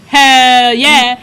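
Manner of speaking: loud, eager retold cheer; eager exclamation. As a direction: belt out an enthusiastic yes. Friend's eager reply retold.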